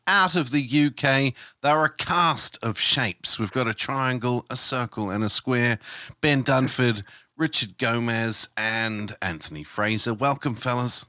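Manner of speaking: slow, measured mock BBC announcer; lightly put-on BBC English. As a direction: introduce guests in your best BBC accent. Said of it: "That was my best B B C voice".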